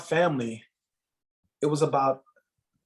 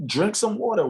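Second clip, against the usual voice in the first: put-on Jamaican accent; 9 semitones higher than usual. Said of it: "that Jamaican accent and tone".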